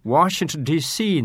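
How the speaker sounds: ワシントンディーシー in American English, "Washington D.C."; 英語風発音. Shown as a demonstration. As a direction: show off an English-accented ワシントンディーシー. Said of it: "日本語で話している時にですね". (ワシントンディーシーを英語の発音で)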